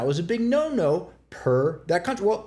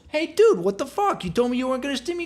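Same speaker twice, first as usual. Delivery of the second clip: betrayed frog; 7 semitones higher, faster than usual. Retold or imitated. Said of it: "And the frog goes".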